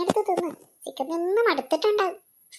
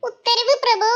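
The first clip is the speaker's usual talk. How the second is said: higher, mock-servile reply; bow out sarcastically to your lord; mock obedience; 6 semitones higher, 4 dB louder, slower than usual. Wife mockingly obeys husband. (പരിഹാസത്തോടെ അനുസരണ)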